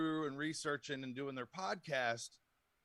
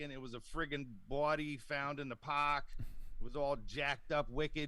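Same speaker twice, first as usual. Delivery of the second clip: put-on Boston accent. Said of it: "if he's in the North, it's Bobby".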